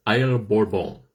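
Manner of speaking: put-on Isle Bourbon in a clumsy French accent; a self-mocking go at a French accent; bad French accent. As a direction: attempt French, badly. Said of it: "My French accent is terrible".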